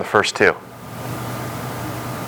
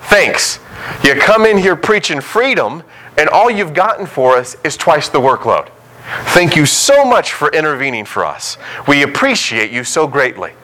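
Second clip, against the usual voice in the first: mock-grateful, pitched up and biting; sarcastic thanks; 3 semitones higher than usual. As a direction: thank them while blaming them. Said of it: "look at Moses and Aaron and go".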